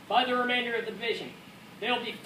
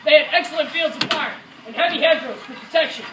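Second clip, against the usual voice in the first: forceful war narration; raised-voice battle account; 4 semitones higher, 7 dB louder than usual. Acted. Soldier describing the German defenses, in a raised voice. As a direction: project the report over battle noise.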